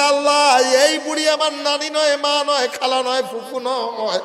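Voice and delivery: high chanted cry, easing off by the end; calling out to God. Acted. Omar calls on Allah about the old woman, high cry. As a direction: cry out loud, then step down through the list. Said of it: "আল্লাহকে ডাক দেয়".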